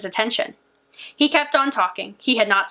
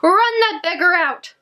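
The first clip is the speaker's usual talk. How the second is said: witch's scream; 6 semitones higher, slower than usual. A narrator's reading. Witch screaming at her servants to throw the girl out. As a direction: spit each word at the servants. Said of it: "The witch screamed at her servants".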